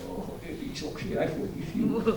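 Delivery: high, soft, slow make-believe forgiveness; melodramatically tender, high and hushed; soap-opera forgiveness. Pretend. Child forgives Daddy in an imagined soap-opera reunion, sweetly tearful melodrama. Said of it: "Bener kayak sinetron".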